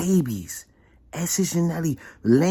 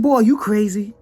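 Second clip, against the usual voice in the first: higher and louder, outraged; retold angry disbelief; indignant; 9 semitones higher, 5 dB louder than usual. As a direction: demand an explanation. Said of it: "I said".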